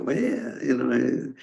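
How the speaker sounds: a faint French accent, lightly mocked; bad French accent. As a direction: try a fussy French cardinal and fail. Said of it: "I can't do the French accent at all".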